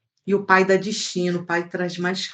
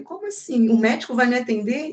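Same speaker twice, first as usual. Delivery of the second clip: raised pitch in retold disbelief; a high, amazed question; disbelieving; 5 semitones higher than usual. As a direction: ask it as if you can't believe your luck. Retelling her disbelief at the doctor.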